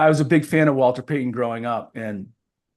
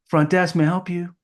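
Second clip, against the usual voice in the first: lightly voiced receptionist, pitched up; front desk clerk; 4 semitones higher than usual. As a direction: answer like a hotel clerk, lightly acted. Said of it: "the person at the front desk".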